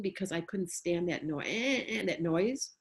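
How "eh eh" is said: brief mimicked toddler whine; imitated whining. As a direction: mimic a child's grating whine. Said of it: "how to cry and whine".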